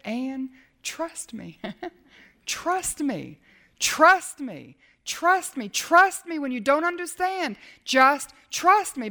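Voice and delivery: slow, gentle trust me, rising with each repeat; God's reassurance. Retold or imitated. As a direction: reassure her again and again. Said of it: "And you know what he said?".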